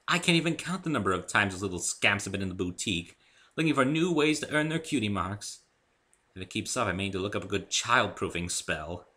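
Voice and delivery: lightly exasperated, amused; mildly fed up with the little scamps; hint of exasperation. Rarity about the fillies in her boutique, mildly exasperated. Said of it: "with just a hint of exasperation".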